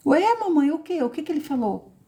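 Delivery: put-on a little kid amazed and wanting to know; surprised child voice.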